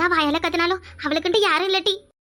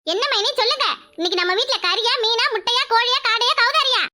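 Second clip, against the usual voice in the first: rising higher with each dish, building to a high peak; greedy sister-in-law; 4 semitones higher than usual. Acted. Sister-in-law guessing what's cooking, climbing to a high greedy question. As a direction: list the feast hungrily, climbing.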